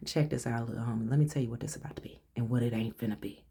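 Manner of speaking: fast, hushed, menacing warning; tough street talk. Real, not acted. Warning a bully, fast and hushed with street swagger. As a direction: lean in and put them on notice, quick and low. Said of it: "I don't normally talk like this".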